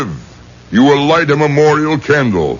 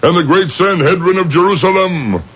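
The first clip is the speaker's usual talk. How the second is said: solemn command; 4 semitones higher than usual. Acted. Rabbi commands the spirit to leave.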